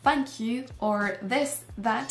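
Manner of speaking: "thank", "this", "that" with clear TH sounds; English TH. Shown as a demonstration. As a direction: model the TH in "thank you, or this, that". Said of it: "Pensez également au T H".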